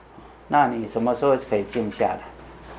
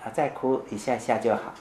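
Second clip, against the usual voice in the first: gentle comfort; 3 semitones lower, 6 dB quieter than usual. Retold or imitated. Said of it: "我说".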